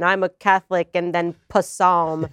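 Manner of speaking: lightly imitated politician fumbling a word; slow down and botch PASAM; a hint of a mock politician, stumbling on Pasam; Joe Biden. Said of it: "kind of like the Joe Biden".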